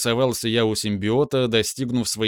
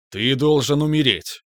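booming overlord command. Acted. Teacher keeps commanding.

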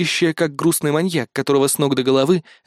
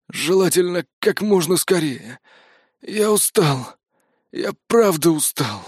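slow, higher, tired sighing voice; weary exhale; 4 semitones higher, slower than usual. Acted. Exhausted mercenary sighs that he is just tired. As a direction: let it out like a spent prisoner. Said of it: "выдохнул он".

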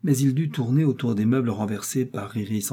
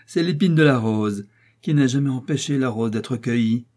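mocking laugh. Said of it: "un grand éclat de rire".

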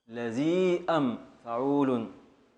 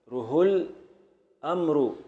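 رهو stretched out, each syllable held; teacher carefully re-scanning رهو الأمر slowly; slow, careful re-scansion of رهو الأمر; 2 semitones higher, slower than usual. Shown as a demonstration. Teacher checking the verse slowly. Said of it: "صح".

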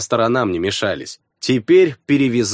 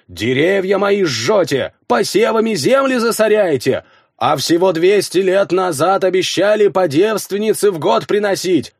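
eldritch horror; 6 semitones higher than usual. Acted. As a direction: threaten the villagers as a monster. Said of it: "самым нечеловеческим голосом".

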